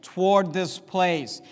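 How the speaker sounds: "toward" weighted, slow; stress on TOWARD. Shown as a demonstration. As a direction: drag out "toward this place". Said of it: "notice the emphasis again".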